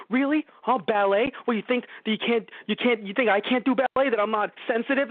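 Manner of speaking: high, indignant incredulous yell; off-the-wall angry. Retold or imitated. Terry defends himself to his ex, high indignant outburst. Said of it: "off-the-wall angry".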